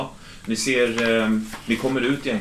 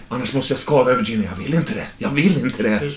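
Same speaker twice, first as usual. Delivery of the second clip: raised, strained insistence; agitated threat; 3 semitones higher, 3 dB louder than usual. Acted. Kidnapper not wanting to hurt Virginia, agitated. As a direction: push the pitch up and insist.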